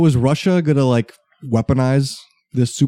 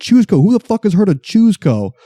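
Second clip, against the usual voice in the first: indignant rant; 5 semitones higher than usual. Real, not acted. Ranting about lawsuit.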